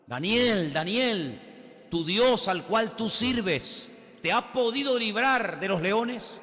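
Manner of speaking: a worried king calling into the lions' den; anxious king calling. Retold or imitated. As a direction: plead anxiously, drawing out the words.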